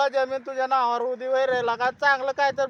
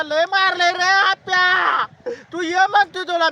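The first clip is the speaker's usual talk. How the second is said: crying; 4 semitones higher, 6 dB louder than usual. Acted. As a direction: sob it out as if badly beaten. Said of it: "रडवून हे सगळं होत नसतं".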